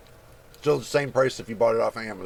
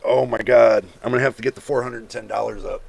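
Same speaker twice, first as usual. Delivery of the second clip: mock excited gasp; 2 semitones lower, 6 dB louder than usual. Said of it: "That would have been like".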